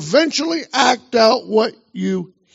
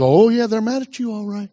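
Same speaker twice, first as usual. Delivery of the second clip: devil's sly voice. Acted. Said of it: "The devil goes".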